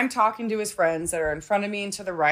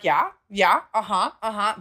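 dismissive yeah yeah. Retold or imitated. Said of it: "being a fucking bitch about the whole situation".

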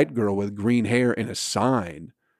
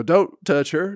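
raised, half-yelled mock plea; mock pleading; 6 semitones higher, 3 dB louder than usual. Protest friends pleading with the auction guy, raised mock plea. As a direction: imitate the friends begging him to stop, a bit higher. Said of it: "her other fucking friends start go".

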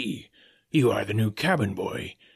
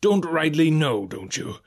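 slow, raised, scornful repeat; sarcastic seadog mimicry; mocking echo; 5 semitones higher, slower than usual. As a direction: throw his words back, dropping on the tag question. Silver mocks Morgan's answer.

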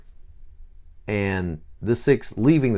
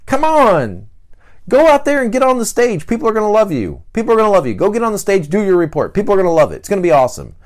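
high, loud, pumped-up encouragement; cheerful coach rallying a nervous friend; upbeat cheerleader; 10 semitones higher, 6 dB louder, faster than usual. Acted. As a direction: hype him up to get on stage. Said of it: "What's the seven say?".

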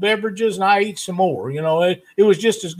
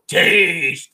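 mock Russian accent; 4 semitones lower than usual. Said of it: "You gotta say it right".

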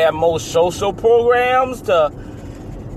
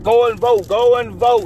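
hyped-up ad voice, higher; commercial announcer; 5 semitones higher, 3 dB louder than usual. Retold or imitated. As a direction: pitch it like a TV ad. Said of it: "the way the commercials I'm watching".

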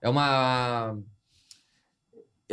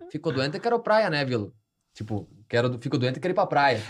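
imitating grandma; 4 semitones lower than usual. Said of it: "a minha avó vai falar assim".

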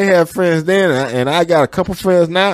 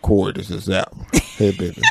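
retake of the greeting; 12 semitones lower, 8 dB quieter than usual. Pretend. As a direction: try another take, breaking into laughs. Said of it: "I don't like that one".

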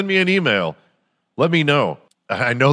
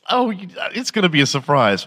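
coy Jill Biden; 8 semitones higher than usual. Acted. Jill answering Joe coyly.

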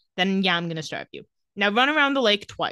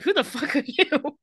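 mock pizza girl snapping; 6 semitones higher than usual. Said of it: "she's like".

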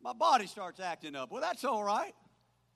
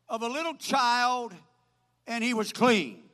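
raised, declamatory pulpit reading; scripture reading; 4 semitones higher, 7 dB louder than usual. Real, not acted. Preacher reading Second Kings to the congregation, declaimed scripture reading. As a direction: proclaim the verse with punched phrases.

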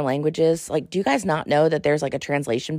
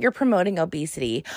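quick, quieter sneering refrain; mock troll refrain; 4 dB quieter, faster than usual. Host mocking Instagram trolls, quick sneering refrain. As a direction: toss it off like a tired troll.

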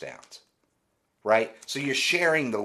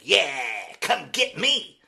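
mock boast, pitched higher and louder; cocky gym newbie; 7 semitones higher, 4 dB louder, slower than usual. Mocking an overconfident fat kid at the gym, cocky taunt. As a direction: puff up like a kid who just started lifting. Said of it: "He's like".

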